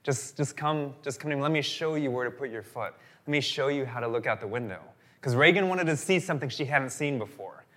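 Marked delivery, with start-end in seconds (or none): 0.0-4.8 gentle invitation. Retold or imitated. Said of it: "And he's like".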